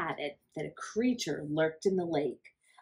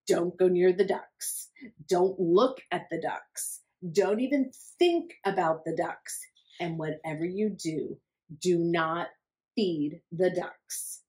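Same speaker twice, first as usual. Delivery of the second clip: stern warning. Acted. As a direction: lay down the law to Hector. Warning voiced to Hector.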